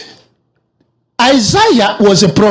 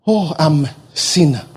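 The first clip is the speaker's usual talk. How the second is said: humbled confession; 6 semitones lower, 5 dB quieter than usual. Retold or imitated. Isaiah confessing before God.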